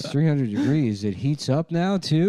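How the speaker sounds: puzzled and thrilled; dumb amazement. Retold or imitated. Joey misunderstands degrees, rising amazement.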